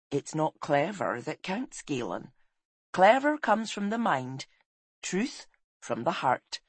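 slow, measured motherly counsel, lightly voiced; gentle mentor. Woman counsels shy boy on truth, gently. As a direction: lightly play a wise woman, unhurried.

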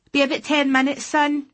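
calling out loud across the lay-by; shout. Acted. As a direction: call it out to the boy down the road. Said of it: "I heard her shout".

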